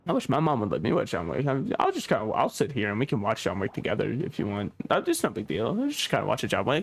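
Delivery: put-on low, sheepish little-boy voice; childlike mumble. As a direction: mumble like a shy kid. Plays childish seatmate.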